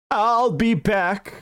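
very slow, stiff movie robot line; Terminator voice. Retold or imitated. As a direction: drag out each word like the Terminator.

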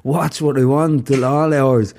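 put-on high, protesting child voice; child protesting bedtime to mum; whiny kid. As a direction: complain like a sulky kid.

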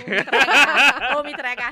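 real laughter breaking through the words; laughing. Real, not acted. To the hosts, laughing while refusing to reveal her age. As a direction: giggle through it, barely holding on.

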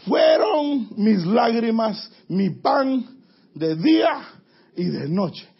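slow, loud lament; crying out. Acted. Preacher voicing the psalmist, a slow loud lament. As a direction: cry it out slowly, word by word.

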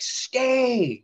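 yelled command. Retold or imitated. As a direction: bark it at a man who won't listen. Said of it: "yelling at him".

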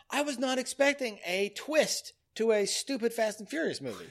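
high, thrilled disbelief; excited outburst. Retold or imitated. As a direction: blurt it out in shock. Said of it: "I'm like".

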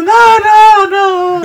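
very high, loud mock scream; hammed-up falsetto wail; screaming lady. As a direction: shriek like the lady in the bank. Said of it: "la señora gritando".

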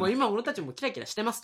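schoolteacher-like proclamation. Acted. Host claiming they sparkle too, mildly teacher-like. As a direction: declare it like a schoolteacher to the class. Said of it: "学校の先生みたいな".

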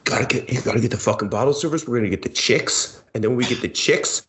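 a hint of a drunk party bro. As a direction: hype up the bottle service like a bro. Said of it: "my new drunk guy in Vegas voice".

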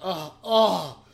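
imitated satisfied moaning; mock moan. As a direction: act out a little moan. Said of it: "you almost moan a little bit".

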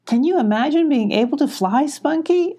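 high, eager question; dreamy excitement. A narrator's reading. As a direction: wonder aloud, pitch climbing to the name. Character dreams of flying.

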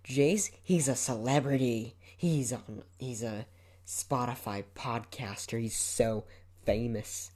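lightly mocking a friend's showy introduction; gushing friends. Friend introducing him to Bethany, mock gushing. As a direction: play up the celebrity, slowing towards the end. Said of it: "they're always like".

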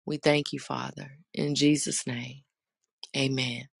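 earnest spoken prayer. Acted. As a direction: pray aloud to the congregation. Leads an opening prayer.

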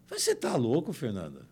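high, loud mocking disbelief; scoffing disbelief. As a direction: scoff as if the idea is absurd. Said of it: "quoting the girl's scoffing reply". (descrença zombeteira, alta e aguda)

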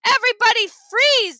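dad ordering the whole room to halt; commanding high shout. A narrator's reading. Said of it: "Dad shouted".

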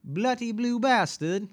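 high, deliberate British caricature; mock British accent. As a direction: nail it in a hammy British voice. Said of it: "do it with a British accent".

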